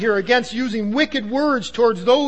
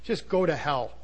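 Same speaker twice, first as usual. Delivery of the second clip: intense curse; 5 semitones lower, 6 dB quieter than usual. Retold or imitated. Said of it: "with all that intensity in your soul".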